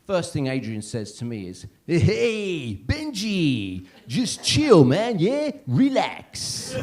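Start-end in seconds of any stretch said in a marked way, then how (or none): 1.8-6.8 high, hammed-up Zimbabwean accent. Overconfident guest greets comedian in pyjamas, mock Zimbabwean accent. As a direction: draw it out in a pitched-up Zimbabwean accent. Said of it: "Was that a Zimbabwean accent Ben did".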